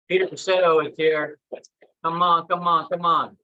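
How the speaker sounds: hype host. Pretend. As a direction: pump the crowd up for his entrance. Hyping crowd for new arrival.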